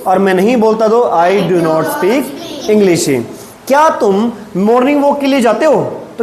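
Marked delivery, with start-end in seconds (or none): 1.0-3.2 slow, spaced-out model sentence; slow modelling. Shown as a demonstration. Teacher giving pupils the negative answer, slowly. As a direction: give each word room for learners.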